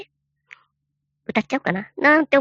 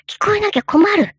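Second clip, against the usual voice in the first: mock big voice; 10 semitones higher, 4 dB louder than usual. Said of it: "でっかい声で".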